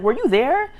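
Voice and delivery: high, loud question breaking into laughter; laughing disbelief. Retold or imitated. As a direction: ask it incredulously through a laugh. Amused disbelief at his claim.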